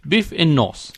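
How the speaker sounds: lightly put-on letter writer's greeting; a touch of someone else's voice; Fritas impression. Co-host opening Fritas's letter, lightly imitating him. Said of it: "I did my Fritas impression".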